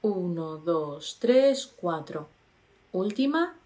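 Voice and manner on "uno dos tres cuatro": slow counting. Shown as a demonstration. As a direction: count to four slowly, one number at a time. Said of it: "contamos mentalmente hasta cuatro".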